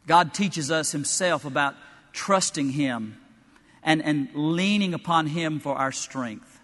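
slow, deliberate teaching; measured preacher's emphasis. Acted. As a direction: lay each word down slowly.

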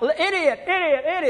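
high, loud chant of Idiot; jeering crowd yelling Idiot high and loud; mock crowd cry. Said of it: "they're calling out".

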